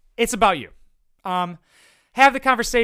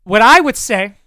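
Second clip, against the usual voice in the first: loud launch; 3 semitones higher, 12 dB louder, slower than usual. Real, not acted. Launching into blunt advice.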